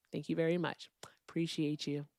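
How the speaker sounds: breathy whispered thanks. Real, not acted. Streamer brushing off a chatter, whispered thanks. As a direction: whisper it off dismissively.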